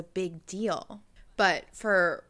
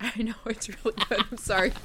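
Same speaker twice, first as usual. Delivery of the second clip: mouth full. Real, not acted. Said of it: "with my mouth full".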